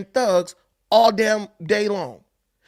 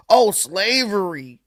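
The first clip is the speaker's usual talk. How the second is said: mocking imitation; slower than usual. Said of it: "That's what they do".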